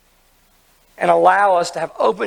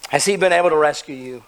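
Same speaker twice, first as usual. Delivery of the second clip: anguished plea. Acted. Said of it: "cries out in anguish".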